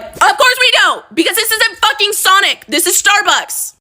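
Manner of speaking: very high, slowed, fake-sweet falsetto; mock customer service voice. Barista agreeing with manager before an upset customer, mock-sweet high voice.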